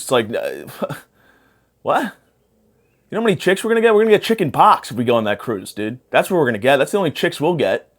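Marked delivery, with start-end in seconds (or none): 1.8-4.9 high, eager party bro. Pretend. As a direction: pitch it up like a hyped frat bro. Bro voice continues.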